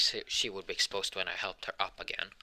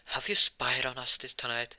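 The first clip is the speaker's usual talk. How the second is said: raised, accusing father voice; stern father; 5 semitones higher, 4 dB louder than usual. Retold or imitated. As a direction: confront like a strict dad. Dad confronting teen.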